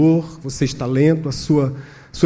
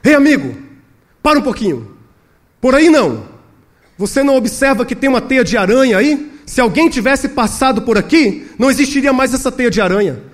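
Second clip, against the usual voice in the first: higher-pitched calling out to a companion; shouting; 9 semitones higher, 5 dB louder than usual. Acted. Robber stops his companion near the hiding place, shouting. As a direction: call out to halt your partner. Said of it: "ele ouviu um deles gritando".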